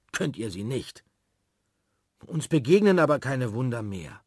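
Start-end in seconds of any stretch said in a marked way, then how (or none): 2.3-4.2 put-on grumbling boy. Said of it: "mault Peter".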